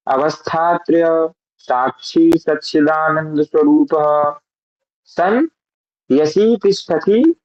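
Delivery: slow, careful Sanskrit chant-like reading; mantra recitation. Shown as a demonstration. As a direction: recite the verse syllable by syllable. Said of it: "फिर से एक बार पढ़ते हैं". (धीमा, स्पष्ट संस्कृत पाठ)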